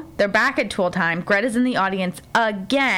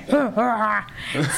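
mock manly grunt. Manly noise after "be a man.

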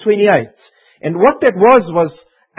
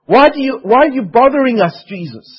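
panicking demons; 4 semitones higher, 3 dB louder than usual. Acted. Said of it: "These demons were panicking".

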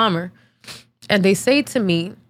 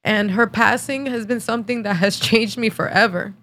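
tearful; 2 semitones higher than usual. Real, not acted. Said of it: "my makeup is gonna look like shit".

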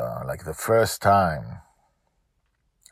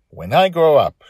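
put-on high, louder child voice; little girl voice; 10 semitones higher, 11 dB louder than usual. Dragon Lil telling her father, in a high child voice. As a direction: play a small girl dreaming big. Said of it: "she told him casually".

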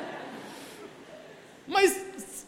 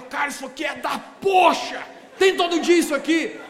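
empolgado e mais alto; imitando empolgação; 4 semitones higher, 5 dB louder than usual. Retold or imitated. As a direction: fala como o rapaz animado. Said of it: "e ele falava". (o visitante animado, mais alto)

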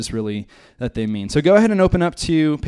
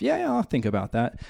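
dismissive; 2 semitones higher, 6 dB quieter than usual. Pretend. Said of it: "you're just blowing them off".

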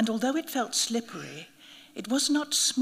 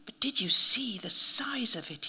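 feeble, breathy whisper; weak whisper; 2 semitones higher than usual. A narrator's reading. Fading priest marvelling at the snake, weak whisper. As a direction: barely get it out. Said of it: "he said weakly".

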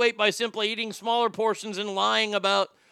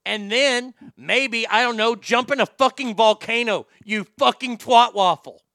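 angry insult; 6 dB louder than usual. Real, not acted. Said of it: "Here's my rant".

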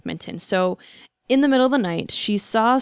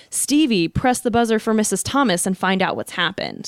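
mildly raised voice, imitating a call; retold yell; 2 semitones higher, 3 dB louder than usual. Inmate calling to the next cell, retold mild yell. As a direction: call out a request, toned down for storytelling. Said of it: "so she yells out".

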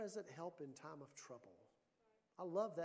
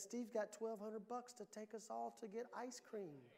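still small voice; 3 semitones higher, 6 dB quieter than usual. Retold or imitated. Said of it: "A still small voice that says".

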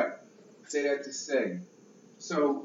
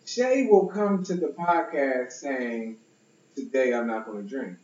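Shay voice. Shown as a demonstration. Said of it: "this is my Shay voice".

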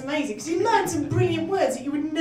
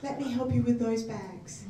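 mock helpfulness; 5 semitones lower, 7 dB quieter than usual. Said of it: "he had the best backup plan when someone tried to mug him".

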